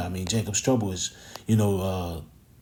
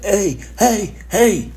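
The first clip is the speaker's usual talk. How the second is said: higher, louder mock yell from afar; calling out; 9 semitones higher, 4 dB louder, much slower than usual. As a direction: call out to someone down the street, half-acted. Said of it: "I'm hearing somebody yelling".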